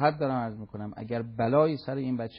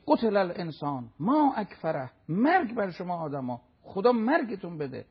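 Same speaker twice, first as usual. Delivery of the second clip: stern, somewhat raised condemnation; quoted divine anger; 3 semitones higher than usual. Retold or imitated. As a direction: pronounce the curse as an angry rebuke.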